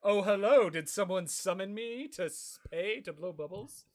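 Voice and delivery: creeping in with a mock sinister hello; ominous Patrick. Podcaster voicing Patrick rising up ominously. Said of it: "Rocks lips up ominously like".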